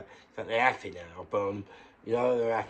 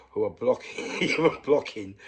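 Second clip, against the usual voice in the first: angry rant; 8 dB louder than usual. Real, not acted. Angry rant about doctors.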